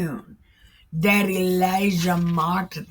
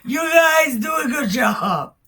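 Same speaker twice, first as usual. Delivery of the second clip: mock coach cheer; 4 semitones higher than usual. Elijah mockingly cheers on the prophets like a sarcastic coach. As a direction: egg them on like a fake-hearty coach. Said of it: "He's like".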